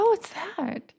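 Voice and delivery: feigned casual curiosity. Retold or imitated. Asking him about the tattoo while panicked, feigned lightness. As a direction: lift it high, masking panic.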